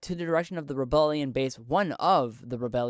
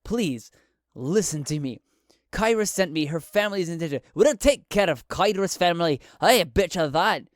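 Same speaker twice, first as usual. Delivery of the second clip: desperate plea; 3 semitones higher, 5 dB louder than usual. Acted. Pinned to wall, pleading.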